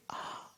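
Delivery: soft acted gasp of pain; hushed groan, acting hurt. A narrator's reading. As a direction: let out a quiet, pained "ah". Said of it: "he's in such pain".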